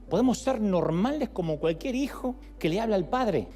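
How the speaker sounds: normal talking voice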